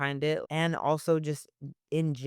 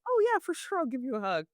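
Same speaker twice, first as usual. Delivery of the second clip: eager yes; 7 semitones higher, faster than usual. Retold or imitated. Agreeing to give a hug.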